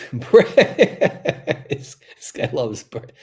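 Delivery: laughing through the words; helpless chuckle, words breaking up; real amused laughter. Real, not acted. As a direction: crack up and talk through it. Amused by mention of Brit.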